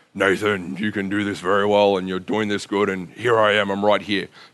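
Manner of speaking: big, loud imagined voice. Speaker imagining God speaking to him by name, in God's big loud voice. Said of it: "big, loud voice being like".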